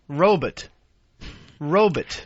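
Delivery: ROBOT said as "ROE-bit", deliberately repeated; imitated mispronunciation. Co-host mimicking partner, imitated mispronunciation. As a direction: say ROBOT with a clipped-off "bit" ending. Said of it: "It sort of sounded like robot".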